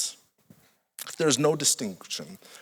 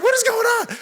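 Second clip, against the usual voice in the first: stunned disbelief. Retold or imitated. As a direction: throw it up in comic bewilderment. Stunned after being called nobody.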